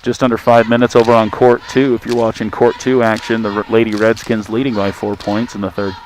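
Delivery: muffled voice like a head cold. Real, not acted. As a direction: talk as if through cloth, muffled. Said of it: "I keep wondering why I sound muffled".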